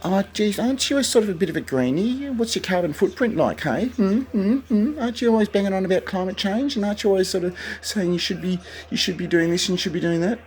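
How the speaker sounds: very high, nasal-free sneering voice, fast at the end; imagined critic jeering about his carbon footprint, very high; mocking critic. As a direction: needle him like a smug critic. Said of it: "you could say".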